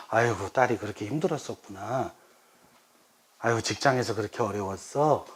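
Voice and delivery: mildly tender parental sympathy; sympathetic echo. Shown as a demonstration. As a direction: soothe a child who had a hard time. Parent echoing a child's hardship, demonstrated.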